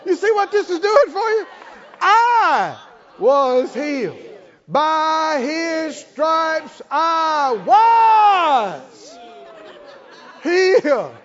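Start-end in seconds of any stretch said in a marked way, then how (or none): 2.0-4.2 "I" hit high and loud before "was healed"; stress on I. Shown as a demonstration. Preacher demonstrating the stress on "I". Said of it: "you can emphasize every word". 4.7-11.2 "I was" high and loud, "healed" falling; stress on WAS. Shown as a demonstration. Preacher shifting the stress further along. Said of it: "you can emphasize every word".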